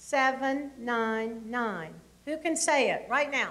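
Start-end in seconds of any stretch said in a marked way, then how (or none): 0.0-1.9 slow, drawn-out, spaced-out delivery. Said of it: "three things you gotta remember".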